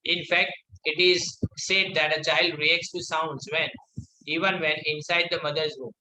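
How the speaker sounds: reads the English line out word by word, very slow; slow classroom read-aloud; slow textbook reading. Acted. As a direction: dictate it slowly to the class.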